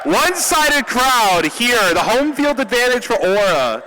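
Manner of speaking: loud, high-pitched arena announcer; crowd hype. Real, not acted. Caster asking Aura fans to make some noise, loud crowd hype. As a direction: belt it out to rouse the fans.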